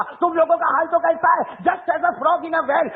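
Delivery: high, slow mocking English line; haughty English retort. Young man lecturing the mullah in English, condescending. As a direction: drag out the put-down condescendingly. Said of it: "اس نے English میں کہا".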